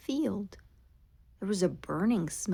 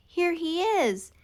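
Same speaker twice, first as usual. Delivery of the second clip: calling out. Acted. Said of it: "called out".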